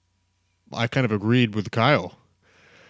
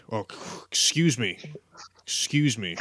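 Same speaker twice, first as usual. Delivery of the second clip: whispered correction. Real, not acted. Self-correcting the team name.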